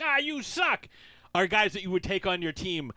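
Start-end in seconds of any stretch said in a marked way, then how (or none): 0.0-0.9 higher jeering call; mock heckle. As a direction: razz a player you secretly like. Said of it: "you're like".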